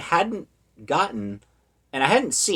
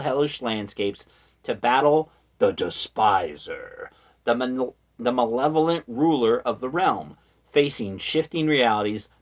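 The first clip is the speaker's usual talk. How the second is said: lightly dramatic back-cover read; selling a pulpy movie premise; blurb read aloud. Acted.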